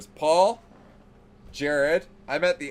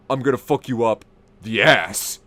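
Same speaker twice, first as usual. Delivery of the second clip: put-on drunk calm menace; 3 semitones lower, 5 dB louder than usual. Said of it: "Jared goes".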